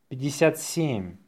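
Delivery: natural-speed dictation. Shown as a demonstration. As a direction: run the number together briskly.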